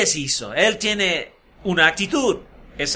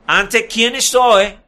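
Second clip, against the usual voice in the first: louder, slow, pointed; sarcastic emphasis; 3 semitones higher, 6 dB louder, slower than usual. Retold or imitated. Eliseo repeating his oath to the kings, louder and scornful. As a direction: lean hard on "¿Ante quién estoy?" with scorn. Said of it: "sarcásticamente".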